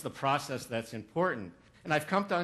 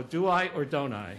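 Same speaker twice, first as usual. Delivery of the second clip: mock uncertain musing; 5 dB louder than usual. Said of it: "others go".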